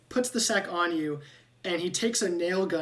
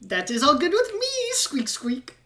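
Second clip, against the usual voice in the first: high, louder rat voice ending in whispered squeaks; pleased rat; 10 semitones higher, 6 dB louder than usual. Acted. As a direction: agree like a delighted little rat. Rat agrees happily.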